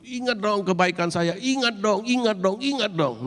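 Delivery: high, pleading wail of a weeping king; crying plea. Acted. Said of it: "dia nangis keras-keras gitu". (memohon sambil menangis dengan suara tinggi)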